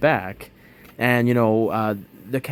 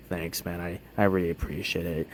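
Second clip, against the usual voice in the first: much softer, meek and embarrassed; quietly thanking the coworker, sheepish; sheepish thanks; 4 semitones lower, 7 dB quieter than usual. Retold or imitated. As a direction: mumble the thanks, ashamed. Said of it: "walk sheepishly by".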